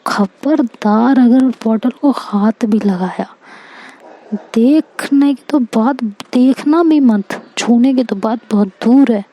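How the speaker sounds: slow, stern mock threat from the sister-in-law; stern warning. Sister-in-law warns her not to touch the bottle, slow and stern. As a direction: lay down the law slowly, like a strict elder. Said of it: "भाभी आगे मेरे कान पकड़ती हैं".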